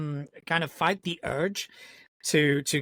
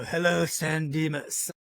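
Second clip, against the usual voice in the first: Ted impression. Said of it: "the Ted from Bill and Ted".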